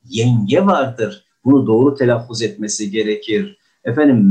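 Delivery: ordinary delivery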